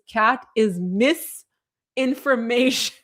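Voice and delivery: "misinformation" slowly split into MISS and information; drawn-out pun. Shown as a demonstration. Streamer reading a viewer's pun to the chat, drawn-out pun. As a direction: draw out "misinformation" as two separate words.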